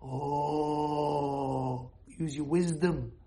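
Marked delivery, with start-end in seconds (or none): none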